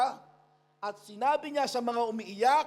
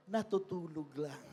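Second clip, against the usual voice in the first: laughing; 7 semitones lower, 7 dB quieter than usual. Real, not acted.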